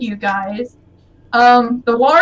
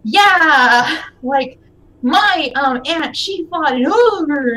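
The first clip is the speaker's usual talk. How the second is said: put-on excited kid's boast, higher with drawn-out words; puffed-up bragging; 3 semitones higher, 3 dB louder, much slower than usual. Kid boasting about her aunt's ogre fight, puffed-up. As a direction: brag it up proudly. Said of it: "still puffing up and talking like".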